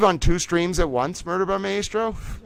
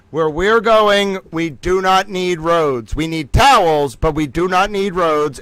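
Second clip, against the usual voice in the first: dramatic movie quote; 2 semitones higher, 6 dB louder, slower than usual. Acted. Quoting a movie line dramatically.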